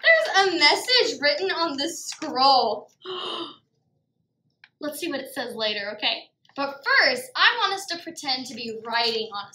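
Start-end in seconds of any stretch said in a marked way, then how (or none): 3.0-3.5 soft, drawn-in gasp; wondering gasp. Pretend. Teacher finds a message on the scroll, wondering gasp. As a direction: gasp at a discovery.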